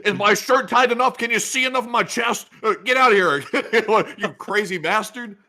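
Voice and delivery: high, loud hammed-up voice; high mock voice. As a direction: ham it up in a high voice. Mock patient and doctor.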